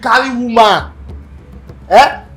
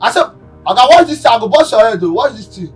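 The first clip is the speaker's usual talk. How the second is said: angry threat; 3 semitones higher than usual. Acted. Threatening over broken plate.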